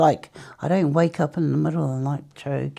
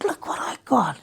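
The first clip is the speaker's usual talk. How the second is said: a hushed, thrilled whisper; excited whisper; 4 semitones higher than usual. Retold or imitated. Whispering to her cousin about the hamper. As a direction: whisper it like a secret treasure.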